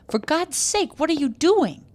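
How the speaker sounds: husband aghast at his wife creeping; shocked cry. A narrator's reading. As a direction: recoil at what he sees.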